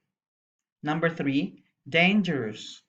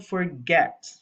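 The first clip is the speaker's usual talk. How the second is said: forget with the weight on its second syllable; stress on the last syllable. Shown as a demonstration. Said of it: "the last syllable get is stressed".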